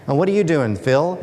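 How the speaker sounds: a light, hammed-up Australian accent, only hinted; bad Australian accent. Construction worker asks his mate about weekend plans, bad Australian accent. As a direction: play a blue-collar Aussie bloke in a deliberately bad Australian accent. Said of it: "I'll try my really bad Australian accent here".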